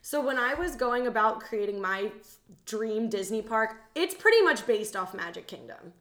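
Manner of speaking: ordinary talk, nothing marked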